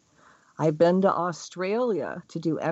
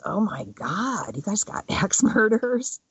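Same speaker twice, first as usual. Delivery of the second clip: lightly voiced mock alarm, slowing at first; a touch of hammed-up disbelief; mock shocked aside. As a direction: feign horror about axe murderers. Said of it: "all I could think of is".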